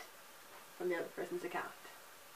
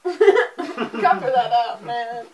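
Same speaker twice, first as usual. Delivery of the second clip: slow, laughing hard; 6 dB louder, much slower than usual. Real, not acted. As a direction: crack up while talking. Laughing fit.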